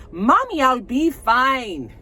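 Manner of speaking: high pleading daughter, slowed right down; mock daughter whine; daughter's whiny voice. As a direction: play the daughter begging her mom, drawn out high. Recapping reality show, daughter voiced.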